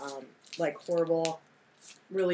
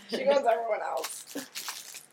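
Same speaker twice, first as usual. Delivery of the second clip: put-on whiny kid voice; 3 semitones higher, slower than usual. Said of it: "He's like".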